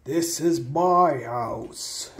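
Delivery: slow, ghostly claim; drawn-out spooky warning; unearthly voice. Acted. Ghost voice threatens visitors.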